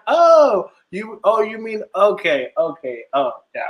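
high "oh" settling down to normal; dawning understanding, pitch falling away; acted realization. Retold moment of catching on.

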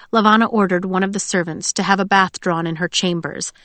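usual speaking voice

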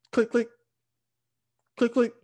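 high, crisp double click; imitated starter click. Truck failing to start on the driveway, imitated clicking. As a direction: mimic a dead starter clicking, high-pitched. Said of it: "You just hear a click".

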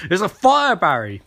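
hammed-up alarm, then flat on the name; urgent warning. The speaker repeating the warning.

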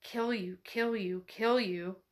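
soft, lightly voiced cursing doll. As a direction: chant the curse softly, like a doll. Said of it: "a dull voice cursing in English".

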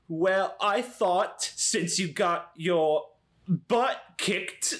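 voice within a voice. Acted. Player voices Cody imitating Eloise, slow badly faked voice. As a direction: pick through a shaky impersonation word by word. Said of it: "trying to do one voice doing another voice".

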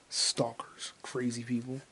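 whispered aside. Real, not acted. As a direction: hush it, no voice.

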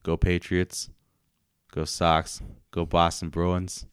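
bad Boston accent sports cheer; a weak try at Boston accent. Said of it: "a really bad attempt at a Boston accent".

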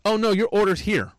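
high, mocking worker voice; a hint of a snippy young cashier; imitating the worker. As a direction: mimic her brushing it off. Worker voiced in retold story.

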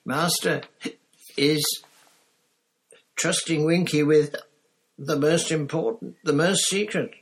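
high, squeaky elf voice full of pride; a drunk house elf boasting of her master; proud tipsy elf. Acted.

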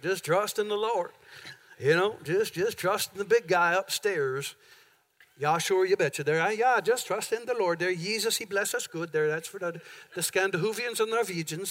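lightly voiced folksy Southern preacher, drifting Scandinavian; southern accent. Pastor to congregation, mock Southern accent. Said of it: "it's gotta have a southern accent to it".

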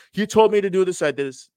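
high, loud whiny protest; mock complaint. Viewer blaming the coach after nearly drowning, whiny. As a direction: whine like someone blaming the coach.

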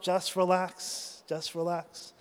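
calming himself. Retold or imitated. Surfer retelling being rolled underwater, slow soft self-calming. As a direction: talk yourself down, slowly.

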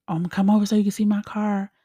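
quick, eager retelling; excited. Retold or imitated. Telling a friend about the new car, excited. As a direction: rush it out with retold excitement. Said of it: "I was excited".

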